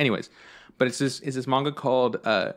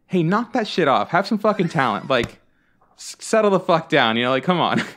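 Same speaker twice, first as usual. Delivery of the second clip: higher, louder mock scolding; scolding mom; 4 semitones higher, 4 dB louder than usual. Lady's mother scolding her daughter, mock loud scold. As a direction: snap at them like a fed-up mother. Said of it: "this lady's mom says".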